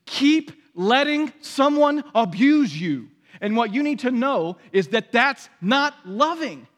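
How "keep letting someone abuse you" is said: higher, louder, slow sarcastic echo; mock the twisted meaning; slow indignant mock quote; mocking misreading. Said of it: "what you might hear is".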